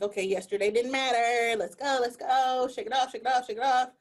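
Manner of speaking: brisk morning pep talk to herself; mild self-cheering push. Retold or imitated. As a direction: hype yourself up to get going. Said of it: "I'm like".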